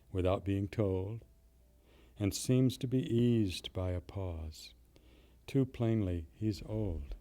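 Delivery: measured, deliberate poetry recital, phrase by phrase; poem reading. Acted. Poet reading a street-scene poem to his audience, measured recital. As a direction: read the verse slowly with weighted pauses. Reads a Hardy poem aloud.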